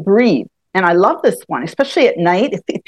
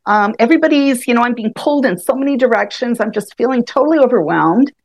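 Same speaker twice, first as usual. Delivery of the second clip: frustrated, overwhelmed; 4 semitones higher than usual. Retold or imitated. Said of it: "and you're going".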